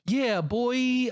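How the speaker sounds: high punchy quoted line; quoting a character. Retold or imitated. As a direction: toss it out like the film. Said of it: "another quote I love is".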